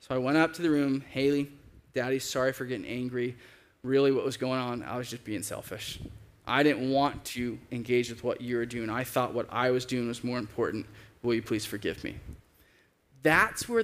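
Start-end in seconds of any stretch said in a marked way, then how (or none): 1.1-12.2 subdued confession, sinking lower toward the end; sincere apology. Retold or imitated. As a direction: re-enact a father gently asking forgiveness. Father apologising to his daughter.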